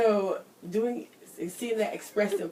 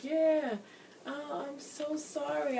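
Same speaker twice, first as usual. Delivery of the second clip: mock sympathy; 6 semitones higher, 5 dB quieter, slower than usual. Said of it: "I would be that one that would be like".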